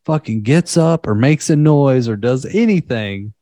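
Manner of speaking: mildly hammed-up angry warning; imitated teacher's tirade. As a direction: go off on the class like a fed-up teacher. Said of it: "went off on the class".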